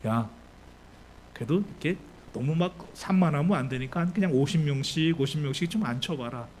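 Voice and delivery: understated unruffled authority; unflustered Jesus. Acted. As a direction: give a calm order, lightly acted. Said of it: "예수님 전혀 당황하지 않으셔요".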